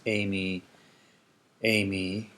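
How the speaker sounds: emi said as the English name Amy, AY-mee; English pronunciation. Shown as a demonstration. Teacher showing how English speakers say emi, like Amy. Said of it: "in English it's pretty much pronounced".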